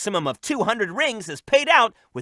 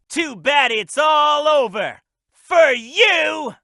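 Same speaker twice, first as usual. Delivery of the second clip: gloating taunt; 4 semitones higher, much slower than usual. Acted. Taunting a defeated foe in battle.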